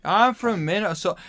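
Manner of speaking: loud, high, hammed-up Minnesota accent. Minnesotan declares home state to friends, hammed-up Minnesota accent. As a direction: exaggerate a singsong Minnesota accent. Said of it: "considering I'm Minnesotan".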